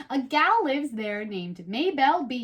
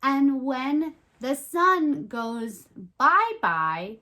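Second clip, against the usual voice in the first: slow recited rhyme; slower than usual. Shown as a demonstration. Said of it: "make some rhymes".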